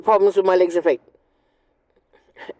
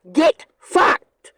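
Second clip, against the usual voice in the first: defiant retort; 5 semitones higher than usual. Retold or imitated. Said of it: "my answer is".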